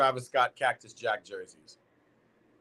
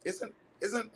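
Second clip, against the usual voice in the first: put-on Scottish accent; 11 semitones higher, 9 dB quieter than usual. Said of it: "I'm gonna get my Scottish right".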